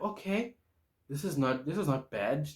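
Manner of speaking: tentatively impressed; pleasantly intrigued. Retold or imitated. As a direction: mull it over with growing interest. Retold reaction to the new station.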